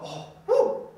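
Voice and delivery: airy whew, then slow and sarcastic; mock relief. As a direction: sarcastically play the relieved parent. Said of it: "You don't go".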